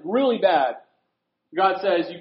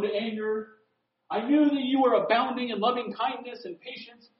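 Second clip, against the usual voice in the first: raised, indignant complaint, pitched up; indignant Jonah; 4 semitones higher than usual. Retold or imitated. Jonah ranting at God for sparing Nineveh. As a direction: rant at God like a sulking prophet. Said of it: "Jonah's, like, stomping out".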